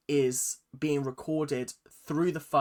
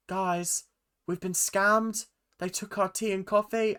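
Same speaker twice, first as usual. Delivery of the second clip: mock outraged announcement; 6 semitones higher than usual. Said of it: "she walks out and she goes".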